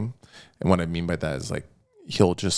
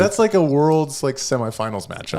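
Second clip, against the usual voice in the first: incredulous exclamation; 8 semitones higher, 5 dB louder than usual. Real, not acted. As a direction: exclaim it as if it's absurd. Exclaiming at the tough matchup.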